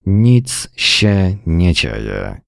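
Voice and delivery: each word pressed slowly and firmly; emphatic, slow. Acted. Wife insisting to John that nothing is wrong, slow and firm. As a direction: stress every word, slowly. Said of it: "dodała z naciskiem".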